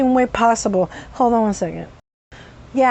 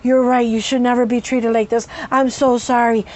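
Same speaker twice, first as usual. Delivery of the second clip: sincere apology; 3 semitones lower than usual. Retold or imitated. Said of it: "sincerest, softest mannerism".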